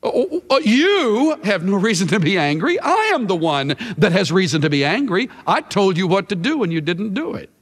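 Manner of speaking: YOU and I hit hard in indignant rebuke; stress on the pronouns. Acted. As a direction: lean on "you" and "I" as the wronged party. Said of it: "I think the emphasis is on the pronoun".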